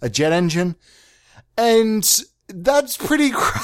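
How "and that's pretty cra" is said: excited outburst. Acted. Excited outburst over crazy idea.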